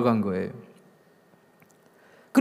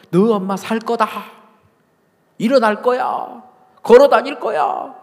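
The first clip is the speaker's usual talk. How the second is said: raised, higher-pitched bold proclamation; emphatic declaration; 10 semitones higher, 8 dB louder than usual. Retold or imitated. Pastor insisting to a family that mother will walk, emphatic declaration. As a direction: declare it louder and higher, with conviction.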